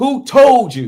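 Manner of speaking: loud emphatic orator delivery. Showing how you imitate a great speaker's rhythm, do a Malcolm X impression, emphasizing certain words. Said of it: "th- that's Malcolm".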